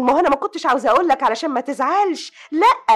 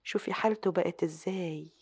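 soft, low voice, partly whispered; guilty murmur to herself; 3 semitones lower, 9 dB quieter than usual. Acted. Sister alone, blaming herself for the wreck: hushed. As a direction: brood quietly over what she has done.

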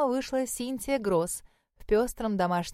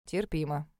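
curt; 5 semitones lower, 4 dB quieter than usual. Acted. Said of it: "коротко ответил Эйден".

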